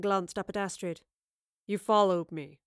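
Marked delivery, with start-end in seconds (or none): 1.7-2.6 sly menacing villain. A narrator's reading. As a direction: voice him smug and dangerous. Villain Wayland speaks.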